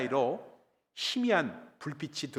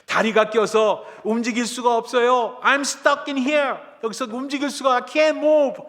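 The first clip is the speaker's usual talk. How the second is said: high, loud cries from someone trapped; acted survivor shouting out; shouted plea for help; 9 semitones higher, 9 dB louder, slower than usual. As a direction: yell desperately to be rescued. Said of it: "하면서 소리를 질렀습니다".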